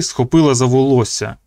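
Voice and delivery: ordinary delivery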